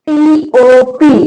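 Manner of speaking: slow letter-by-letter spelling; name each letter separately, drawn out; spelled out slowly. Shown as a demonstration. Teacher spelling a word for learners, slowly letter by letter.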